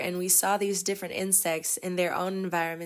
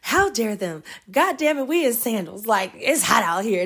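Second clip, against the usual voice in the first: mock angry griping; 2 semitones higher, 4 dB louder than usual. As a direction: imitate them complaining in the heat. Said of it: "the whole way we heard them just".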